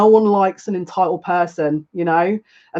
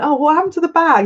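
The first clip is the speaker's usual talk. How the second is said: mock surprise; 10 semitones higher, faster than usual. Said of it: "I went".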